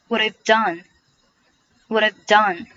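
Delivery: "What I've done" slow, with the first words joined; slow demo linking the start of "What I've done"; "What I've done" carefully run together; linked pronunciation. Shown as a demonstration. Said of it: "What 和have可以连读成".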